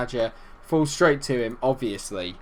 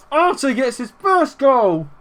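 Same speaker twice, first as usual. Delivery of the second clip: high, loud, drawn-out celebration; excited goal call; 11 semitones higher, 5 dB louder, slower than usual. Real, not acted. Gamer announcing his striker's goal, excited call. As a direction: stretch the words out, elated and loud.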